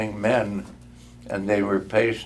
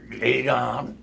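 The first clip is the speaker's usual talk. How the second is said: resolved; 2 semitones higher than usual. Acted. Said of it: "said Scrooge".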